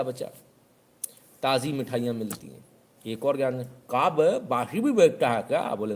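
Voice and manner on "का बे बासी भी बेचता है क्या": higher, louder scornful question; mock challenge. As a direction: sneer the question at him. Customer questioning shopkeeper.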